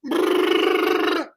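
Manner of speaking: slow rolled brrr trill; rolled r machine gun sound. Shown as a demonstration. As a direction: roll the tongue like a machine gun. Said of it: "Everyone has a different machine gun sound".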